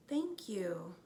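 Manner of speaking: hushed and gentle gratitude; soft thank-you. A narrator's reading. Morgan thanking the children, softly. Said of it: "Morgan said softly".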